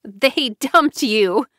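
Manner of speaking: slow, laughing through the words; mocking laugh. A narrator's reading. Tamara mocking JoBeth, laughing through it. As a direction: gloat with a stifled laugh. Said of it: "Tamara stifled a laugh".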